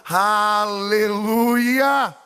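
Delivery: long, loud preacher's shout; drawn-out hallelujah. Acted. Pastor shouting praise to the congregation, long and loud. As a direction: stretch it out over the crowd.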